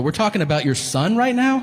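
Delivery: can't believe what he hears; incredulous. Retold or imitated. Shocked at father's insult.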